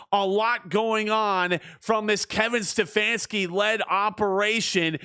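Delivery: sports commentator cadence; play-by-play call. Acted. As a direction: call the game like a broadcaster. Video game play-by-play.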